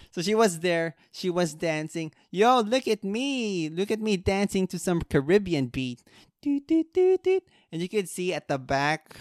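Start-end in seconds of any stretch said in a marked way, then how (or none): 2.3-6.0 mocking show-off voice. Mocking the dancing girl. 6.4-7.4 high, bouncy doot doot beat; vocal beat imitation. Imitating dance music beat.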